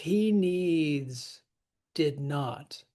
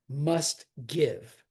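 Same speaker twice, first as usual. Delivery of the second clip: MUST GIVE, two strong beats; both words stressed. Shown as a demonstration. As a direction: hit "must" as well as "give". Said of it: "but must needs to be stressed".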